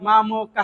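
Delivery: মামকঃ ending in a breathy h sound; with breath. Shown as a demonstration. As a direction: let the ঃ breathe out at the end. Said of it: "একটু উষ্মা দিয়ে". (মামকঃ শেষে উষ্মা দিয়ে)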